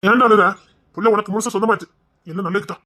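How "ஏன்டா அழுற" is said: calls out loudly, concerned; a sharp loud why are you crying. Acted. Elder brother calling out to crying younger brother.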